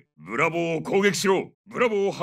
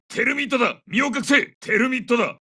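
higher, raised alarm call; urgent warning; 4 semitones higher than usual. Acted. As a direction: order the squad into cover. Warning squad of thermite. (緊迫した警告の声)

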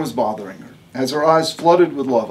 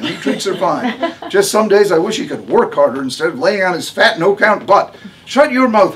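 higher, louder, bossy mother in labor; a tough, no-nonsense patient giving orders; Harmony's voice; 6 semitones higher, 6 dB louder than usual. A narrator's reading. Harmony about her sister.

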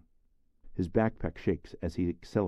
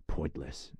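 lower, softer, dismissive aside; "Pointless" muttered low and soft from the side of the mouth; out of the corner of mouth; 4 semitones lower, 7 dB quieter than usual. Acted. Jesper dismisses the cigarettes, low and soft. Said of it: "out of the corner of his mouth".

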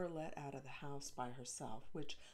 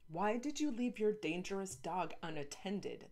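demanding; 4 semitones higher, 3 dB louder than usual. Acted. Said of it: "the freckled girl demanded".

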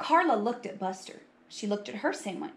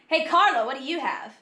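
higher, loud calling question; 5 semitones higher, 5 dB louder than usual. Acted. Boy asking Carla about her lunch, calling out. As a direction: hail a classmate across the room.

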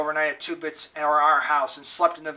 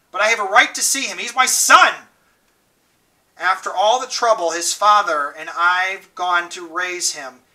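higher, louder indignant mother; angry mother; 3 semitones higher, 5 dB louder than usual. Acted. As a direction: demand your rights, offended. Johnny's mother complaining angrily.

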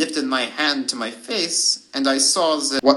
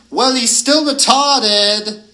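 slow, high, loud mocking wolf; howled jeer; 7 semitones higher, 6 dB louder, slower than usual. A narrator's reading. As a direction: drag the taunt out like a howl. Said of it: "The hooligan howled".

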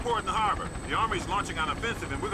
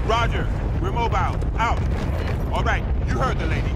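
loud battlefield shout, a bit higher; shouting over noise; 4 semitones higher, 10 dB louder than usual. Acted. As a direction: bark it over the gunfire. Soldier answering over combat noise.

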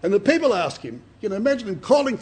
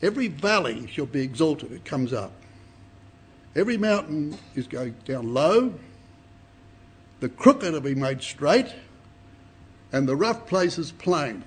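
scripture reading; 3 semitones lower than usual. Shown as a demonstration. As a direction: read it out as holy text. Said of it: "I'll read that again".

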